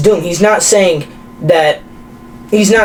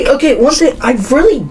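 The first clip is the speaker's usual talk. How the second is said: cracking voice; 8 semitones higher, faster than usual. Real, not acted. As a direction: voice cracking up high. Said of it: "you voice cracked".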